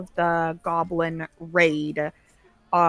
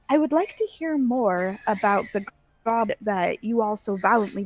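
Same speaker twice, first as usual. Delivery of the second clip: lightly voiced guest-to-be, higher pitch; lightly voiced Shalalu; 4 semitones higher than usual. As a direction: give her a slightly higher, courteous voice. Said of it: "turns to you all and says".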